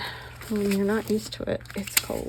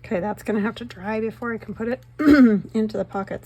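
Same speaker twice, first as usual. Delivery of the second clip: hoarse voice; 3 semitones higher, 6 dB louder, faster than usual. Real, not acted. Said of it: "losing my voice for some reason".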